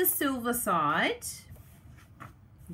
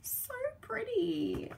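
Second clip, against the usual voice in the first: much higher, softer and slow; slow high coo; 13 semitones higher, 5 dB quieter, slower than usual. Real, not acted. Crafter admiring the paper, slow high soft coo.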